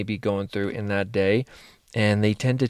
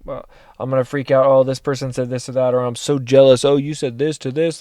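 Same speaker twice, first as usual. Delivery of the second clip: mock freak-out. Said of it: "the idea and the thought of".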